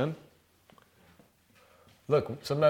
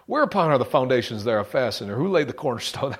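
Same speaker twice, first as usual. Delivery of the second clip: booming voice of God; 5 dB louder than usual. Acted. Preacher booming God's questions to Job.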